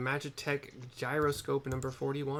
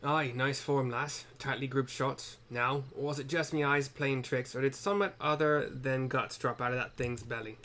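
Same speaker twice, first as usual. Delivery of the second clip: bad Scottish-style accent. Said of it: "my accent for him is horrible".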